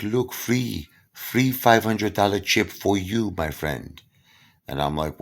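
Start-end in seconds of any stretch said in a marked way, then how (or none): 0.0-4.0 casino hustler. Retold or imitated. Casino guy pitching, voiced.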